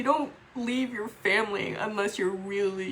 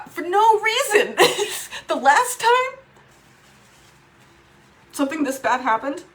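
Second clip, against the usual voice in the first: pained laugh; 8 semitones higher, 8 dB louder than usual. Real, not acted. Laughs at sister's rage.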